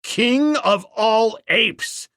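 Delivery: slow, loud and high claim; Tarzan shouting. Acted. Ape man standing over the fallen king, slow shout. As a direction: call out your title slowly. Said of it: "he shouted".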